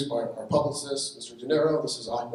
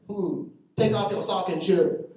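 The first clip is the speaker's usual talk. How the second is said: higher, louder clipped salon boss in a mock Asian accent; 6 semitones higher, 7 dB louder, slower than usual. Salon boss greeting the tall customer, mock Asian accent.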